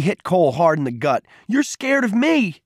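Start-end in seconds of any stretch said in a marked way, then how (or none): 1.5-2.6 very high, drawn-out jeer; angry, goading cry; furious taunt. A narrator's reading. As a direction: stretch the accusation out at a high pitch. Peter taunts while hitting Cole.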